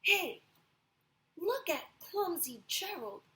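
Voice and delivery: jeering animals mocking Gerald; sneering. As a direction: taunt him like a playground bully. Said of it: "the animals all sneered".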